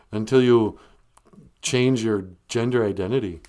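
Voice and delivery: emphatic, mock-baffled politician caricature; George W. Bush. Caller grumbles about modern media, drawling impression. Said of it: "is this George W. Bush?".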